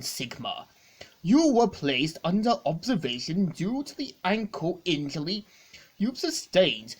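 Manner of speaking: lightly voiced formal robot. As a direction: speak as a polite, stiff machine. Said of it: "one of the robots introduced themselves".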